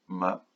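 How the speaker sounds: "Magicien" softly, a long pause after each syllable. Shown as a demonstration. Teacher checking children's drawn syllables, "Magicien" softly broken in three. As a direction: say "Magicien" as three isolated soft beats: ma, gi, cien. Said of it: "dessine tes syllabes".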